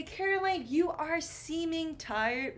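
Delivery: high, exaggerated wrong example; wrong version. Shown as a demonstration. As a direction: say it like the mistake. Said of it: "I do not say".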